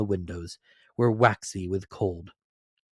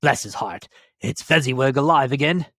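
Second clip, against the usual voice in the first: loud, higher joyful cry; bursting with delight at an old friend; excited; 5 semitones higher, 8 dB louder than usual. Acted. Scrooge sees old Fezziwig again, excited cry. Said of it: "Scrooge cried in excitement".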